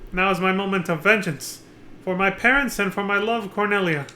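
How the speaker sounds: lightly voiced stage actors in old-fashioned speech; theatrical play roles. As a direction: read the castle drama like a stage play. Voicing the play's characters.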